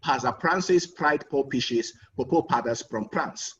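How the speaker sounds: put-on Hausa-accented tongue twister with the f sounds turned to p. Hausa man trying the tongue twister in a Hausa accent. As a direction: say the f in "Father Francis fried four fishes" as p, Hausa style. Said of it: "the Hausa man begins and he says".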